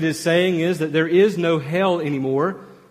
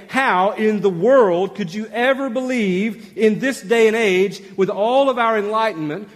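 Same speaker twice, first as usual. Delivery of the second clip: incredulous, higher-pitched skeptic's challenge; sarcastic skeptic; 5 semitones higher than usual. Acted. Preacher voicing a skeptic doubting the resurrection, sarcastic. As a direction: scoff in disbelief, leaning on the key words. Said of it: "Do you hear the sarcasm in the question?".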